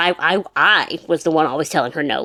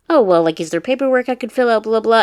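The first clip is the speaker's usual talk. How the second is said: mock pushy lady; 6 semitones higher, 4 dB louder than usual. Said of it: "one of the other ladies was like".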